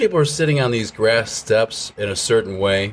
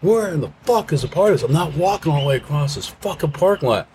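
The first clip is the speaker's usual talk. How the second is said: higher mock drunken shout; drunk yelling; 9 semitones higher than usual. Drunk friend demanding the party bus, mock drunken yell. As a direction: bellow like a wasted concert-goer. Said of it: "to be yelling".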